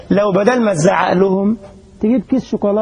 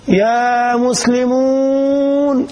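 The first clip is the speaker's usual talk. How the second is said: drawn-out preacher's call; 2 semitones higher, much slower than usual. Shown as a demonstration. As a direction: stretch the call very slowly, like crying out to a crowd. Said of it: "وبنبح صوتي".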